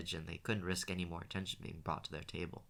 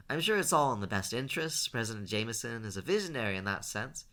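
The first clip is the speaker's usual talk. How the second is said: raised voice, pitched up; a bit louder; 5 semitones higher, 7 dB louder than usual. A narrator's reading. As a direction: speak up so the next table hears. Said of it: "quickly and a bit more loudly".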